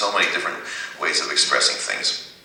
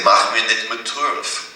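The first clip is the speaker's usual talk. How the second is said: slow careful; 4 semitones higher, slower than usual. Shown as a demonstration. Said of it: "you can say".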